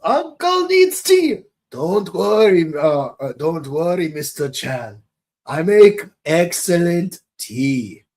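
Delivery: slow, lightly voiced kindly old uncle; Uncle Iroh voice. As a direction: gently offer tea like Iroh. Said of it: "Uncle Iroh to meet".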